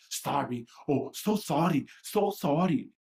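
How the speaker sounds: imitated mother in an Asian accent; mock Asian accent. Mother triggered by hearing an apology, mock Asian accent. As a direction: put on a light Asian accent, mocking. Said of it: "this Asian accent or some shit like this".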